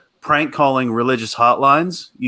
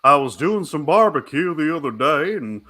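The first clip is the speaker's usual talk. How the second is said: put-on Louisiana accent; 4 semitones higher than usual. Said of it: "the gay Louisiana".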